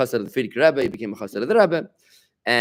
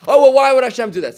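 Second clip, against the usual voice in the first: challenging question; 11 semitones higher, 10 dB louder than usual. Retold or imitated. Imagined challenger's pushback.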